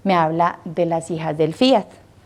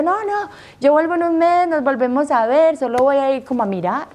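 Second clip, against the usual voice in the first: high, bright promise to come back; reassuring; 6 semitones higher than usual. Retold or imitated. Daughter promising her family she returns in a month, high reassurance. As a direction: soothe the family, voice lifted.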